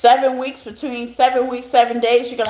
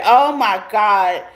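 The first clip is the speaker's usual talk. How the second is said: teary; 3 semitones lower, slower than usual. Real, not acted. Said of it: "I'm covering my tears".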